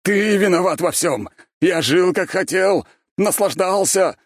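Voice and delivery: high, loud furious cry; rumbling rage. A narrator's reading. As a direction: hurl the accusation. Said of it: "пророкотал голос Константина".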